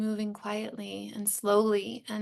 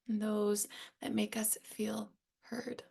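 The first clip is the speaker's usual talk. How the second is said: soft whisper, close and intimate; 8 dB quieter than usual. Real, not acted. Host closing the reflection for listeners, whispered. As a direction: let the last line fall to a whisper. Repeating the line, whispered take.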